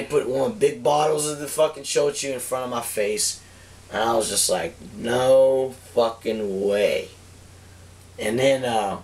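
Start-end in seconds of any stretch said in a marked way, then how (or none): 5.0-7.1 drawn-out, incredulous refusal; disbelief. Retold or imitated. Drinker faced with big shochu bottles, disbelieving. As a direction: draw each word out in disbelief.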